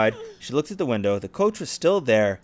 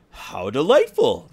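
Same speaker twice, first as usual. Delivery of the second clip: stepsister; 4 dB louder, slower than usual. Acted. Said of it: "the stepsisters said".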